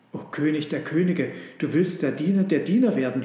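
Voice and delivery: mildly rejoicing slaves hailing their king; jubilant. Acted. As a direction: cheer it out in joyful awe. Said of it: "jubelten die Sklaven".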